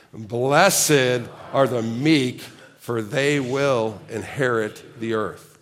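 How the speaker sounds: loud, slow, drawn-out Viking chant; Packer Viking voice. Shown as a demonstration. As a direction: boom it out like a Viking fan. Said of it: "with your strongest Packer Viking voice".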